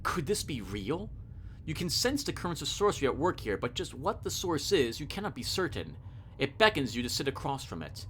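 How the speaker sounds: measured second-person narration; story narration. A narrator's reading. Player facing Death at chess, story narration. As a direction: read the uncanny encounter evenly. Reads the game's story text.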